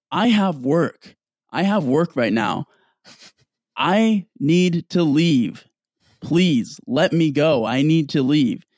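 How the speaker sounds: imitating a desperate plea, dragged out; retold pleading. Girl in scrubs begs the social worker to let her go, slowly pleading. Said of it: "just, like, pleading for her to leave".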